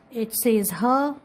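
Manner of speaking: her drawn out as a sound; slow phonics demo of her. Shown as a demonstration. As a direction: slowly sound out her for the class. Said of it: "Like this".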